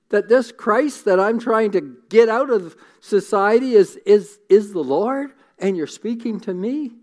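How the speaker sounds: pleading his case, rising in pitch; Saul's indignant protest. Retold or imitated.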